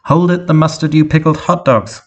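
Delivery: high, sharp bark at the car; hot-headed robot head barking; barked like a dog. Acted. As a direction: bark the insult out. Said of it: "barked like a dog".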